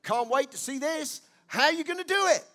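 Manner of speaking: high, fast, eager question; bubbling with anticipation; Mary asking with eager faith; eager expectation. Retold or imitated. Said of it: "from a place of".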